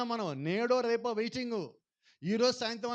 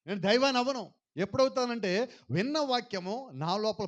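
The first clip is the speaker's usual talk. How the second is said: loud preaching; 4 dB louder than usual. Real, not acted. Preacher raises voice.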